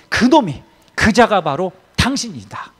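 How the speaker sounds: single out the guilty one firmly; retold prophet's pointed verdict; pinpointed accusation. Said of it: "그렇게 딱 집어갖고 얘기하는 거죠".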